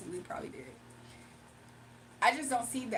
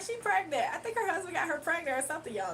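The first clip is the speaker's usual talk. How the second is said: excited, higher gossiping voice; mock gossip rumor; 4 semitones higher than usual. Onlookers guessing she is pregnant, gossiping. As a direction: spread the rumor with relish. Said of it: "They be like".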